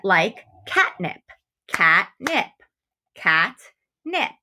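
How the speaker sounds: catnip split cat-nip, slowly; syllables clapped out. Shown as a demonstration. Teacher sounding out catnip for students. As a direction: sound out catnip in two beats. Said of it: "That word has two syllables because it has two parts".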